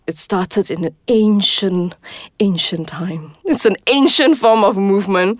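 hushed, dramatic storyteller tone; mystical yoga voice. Pretend. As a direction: set a solemn ancient mood. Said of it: "I don't understand why you have to speak like that".

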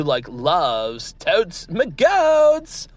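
put-on slow drawled valley girl line. Comedian playing a crypto bro, drawn out valley girl. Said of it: "I'm, like, a valley girl who loves Bitcoin".

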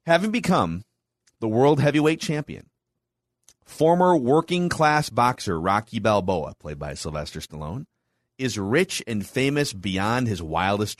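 measured, punchy announcer read with pauses; movie summary read. Acted. Host recapping Rocky three for the co-hosts, announcer-style read. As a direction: read the recap like a dramatic trailer, dropping off at the ends.

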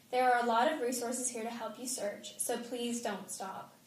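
reading a written public appeal aloud; measured, evenly phrased reading of a family statement. A narrator's reading.

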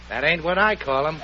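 chuckling through the line; words breaking into laughter; laughing. Acted. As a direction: laugh at your own joke. Boss joking about the husband.

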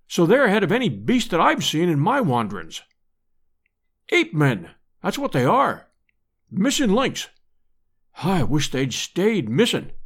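lightly voiced grim hunter; a touch of a grim storytelling adventurer. Roxton recounts the capture.

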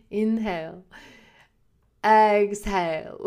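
drawn-out "Inhale. Exhale." like a calm instructor, slow exhale; yoga teacher voice. Retold or imitated. Retrying the yoga teacher's breathing cue, lightly imitated. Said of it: "I can't even say it like she says it".

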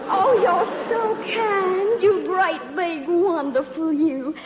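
high, gushing Southern plea; Southern belle routine. Pretend. Actress begs stranger for his room, high mock-pitiful Southern accent. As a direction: build to a breathless, high-pitched Southern sob story. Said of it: "my little old southern routine".

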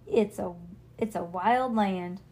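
slow cowboy drawl. Acted. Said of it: "she drawled".

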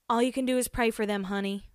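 quick, lightly put-on Southern accent; bad Southern accent. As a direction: attempt a Southern coworker's accent, badly. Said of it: "That's a bad Southern accent".

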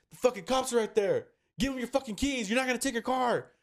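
high-pitched, exasperated quote of a friend; urgent retold scolding. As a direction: raise the pitch sharply, imitating someone intervening. Retold argument, Joe intervenes.

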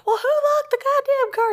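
retold angry yell. Wife demands who locked her out, high acted yell. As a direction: re-enact losing it at a spouse. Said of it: "I'm, like, yelling at him".

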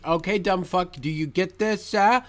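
mocking, sneering narrator voice; condescending narrator. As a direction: talk down to them like idiots. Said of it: "incredibly condescending and mean".

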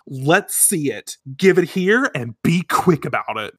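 a hint of a gangster child; little girl holding Usagi at gunpoint, mock menacing; tough-kid threat. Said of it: "And she says".

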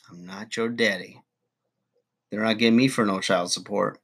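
usual speaking voice

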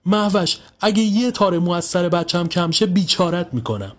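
high-pitched, furious warning; aggressive threat. A narrator's reading. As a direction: threaten a neighbour over your child. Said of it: "مهری خانم با حالتی تهاجمی".

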